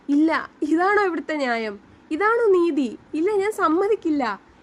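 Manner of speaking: high, loud, crying outburst; tearful protest. A narrator's reading. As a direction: cry out against the verdict. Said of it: "കരഞ്ഞുകൊണ്ടാണ് Shivani ഇറങ്ങുന്നത്". (കരഞ്ഞുകൊണ്ടുള്ള പ്രതിഷേധം)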